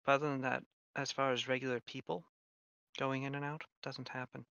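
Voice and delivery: soft, measured in-character voice; quiet, knowing informant. Acted. Shin telling travelers about an isolated town, quiet and informative. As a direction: share hearsay softly, in a hushed register. Game master continues as Shin.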